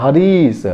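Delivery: हरीश with a lingering, stretched ee in री; long ee demo. Shown as a demonstration. Teacher showing the long vowel in हरीश, री held long. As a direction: draw out the री in हरीश. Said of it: "री में थोड़ा समय लग रहा है".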